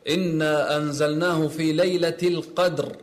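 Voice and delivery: heavy, full r closing القدر; schweres Ra. Shown as a demonstration. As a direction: say القدر with a thickened final r. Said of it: "الحكم في الراء التفخيم".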